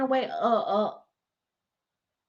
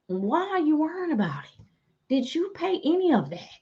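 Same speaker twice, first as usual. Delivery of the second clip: mock questioning; 3 semitones higher, 4 dB quieter than usual. Mock questioning the nosy people.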